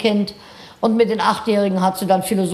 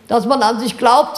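put-on firmer, louder children's answer with a rise at the end; now say it out, with more voice; 3 dB louder than usual. Class repeats for the teacher in outdoor voices, louder. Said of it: "sagten die Kinder lauter".

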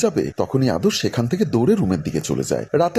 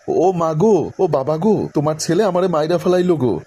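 higher, louder mock wail; 5 semitones higher than usual. Maya wailing to the house that he is hurting her, mock loud wail. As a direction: ham up a dramatic lament for help. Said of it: "মায়া আরো জোরে জোরে বলছে".

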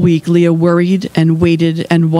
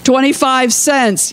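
higher, drawn-out call; mild yell, raised in pitch; yelled bid; 7 semitones higher than usual. A narrator's reading. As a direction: call your bid out slowly across a crowd. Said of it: "yelled a neighbor from town".

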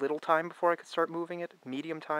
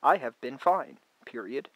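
louder, carefully spoken dictation with the spoken "period"; raised dictation voice; dictating to the phone; 7 dB louder than usual. Shown as a demonstration. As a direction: say it clearly so the phone types it. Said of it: "continue my next sentence".

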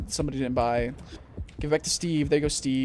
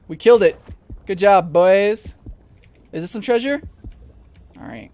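normal talking voice

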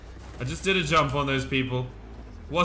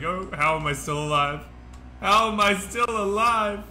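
disbelief rising higher and louder; mock amazement; 7 semitones higher, 3 dB louder than usual. Amazed at surviving crazy hits.

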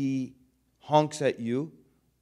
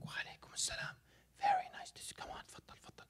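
hushed whispered welcome at the door; 13 dB quieter, faster than usual. Shown as a demonstration. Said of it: "start whispering".

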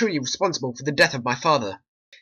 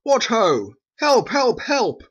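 shrill mimicking call for help; mock cry for help; 6 semitones higher, slower than usual. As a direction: throw her cry back at her, mocking.

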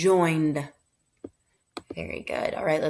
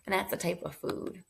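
whispering; 11 dB quieter, faster than usual. Real, not acted. Quick whispered aside to class.

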